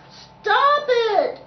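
high, loud drawn-out shout; commanding cry. Acted. Conductor halting the laughter, shouted. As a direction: shout to silence the whole room. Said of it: "cried the conductor".

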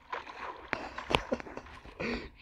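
high, airy burst of laughter. Real, not acted. Cracking up at the game.

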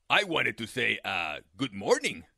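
low, sly coyote voice; a hungry coyote playing innocent; deep sly coyote.

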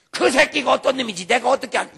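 loud cursing outburst; cursing denial. Acted. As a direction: spit it out like a swearing man. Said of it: "욕하고 저주하며 부인하여 가로되".

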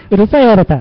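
repeating it through a laugh. Real, not acted. Host laughs off being called noisy by a viewer.

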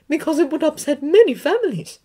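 put-on high, firm older woman; McGonagall voice. A narrator's reading. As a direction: firmly urge him to be strong.

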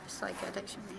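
library whisper. Real, not acted. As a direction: murmur it so nobody hears. Speaking softly in a library.

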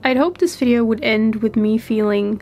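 real heavy cold in the voice; stuffy voice. Real, not acted. Voiceover telling viewers they fell ill, stuffy with a cold. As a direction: talk through a stuffed-up head cold. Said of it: "you're just hearing my stuffy voice".

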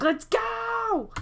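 high, mock-impatient whoop; eager cheer. Sim at her wedding urging them on, eager.

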